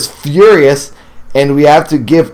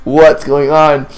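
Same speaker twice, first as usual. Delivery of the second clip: higher, choked-up teary talk; half-laughing through real tears; 3 semitones higher than usual. Real, not acted. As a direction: caught off guard by her own tears while reading. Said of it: "I'm, like, crying".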